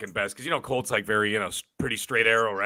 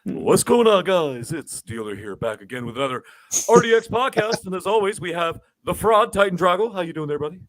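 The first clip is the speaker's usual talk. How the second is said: upbeat podcast host intro, a touch higher; impression of Dealer; 4 semitones higher than usual. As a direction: open the show like the regular host. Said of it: "that's actually a pretty good impression".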